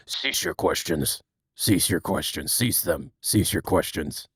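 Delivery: very low, put-on commanding voice; deep mock-authority voice; mock stern command. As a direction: drop deep and order them to stop. Puts on voice to end questions.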